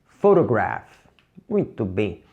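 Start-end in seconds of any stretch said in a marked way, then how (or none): 0.0-0.9 Photograph said out loud for the class; loud classroom demo. Shown as a demonstration. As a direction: speak it clearly and loudly. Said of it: "Em voz alta".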